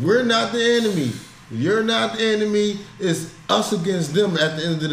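impassioned. Real, not acted. Impassioned plea for unity.

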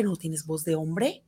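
a hint of a teasing classmate; mocking taunt. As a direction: drag it out like a jeering kid. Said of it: "llegaba toda ronca".

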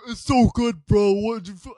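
high, loud bro voice; enthused driver impression. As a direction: imitate a friend raving about his music. Mimics driver defending his music.

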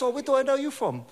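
put-on curious old pastor, high pitched. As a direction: lift the voice high for the old man. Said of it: "And he goes".

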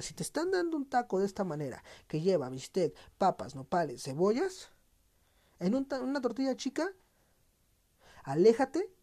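rising into an outraged rant; got carried away. Real, not acted. Podcaster to listeners, getting carried away and outraged. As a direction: work yourself up over the tiny tortilla. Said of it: "ya me exalté".

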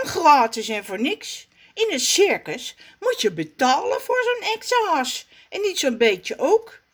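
high, fast bragging voice; boastful Raf. Acted. Raf brags to Zaza, high and fast. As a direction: show off, proud and quick.

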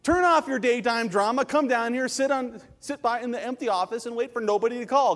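high, loud, scolding comeback; exasperated retort. Retold or imitated. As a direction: build to a shouted rebuke of a complainer. Acted retort to phone complainers.

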